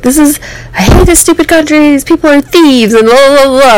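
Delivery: imitating her own angry outburst; retold angry rant. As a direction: replay the meltdown, spitting insults. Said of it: "very out of control and very emotional".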